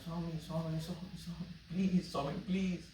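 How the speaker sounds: soft, hushed begging of Swami; quiet inner pleading. Retold or imitated. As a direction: plead under your breath. Silent begging prayer in his mind.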